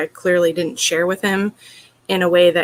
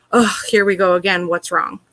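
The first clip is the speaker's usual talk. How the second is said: weary mock sigh. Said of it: "It doesn't feel like it's a genuine care".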